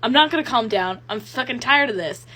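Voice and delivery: fed-up refusal, acted out; snapping. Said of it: "he just eventually snaps".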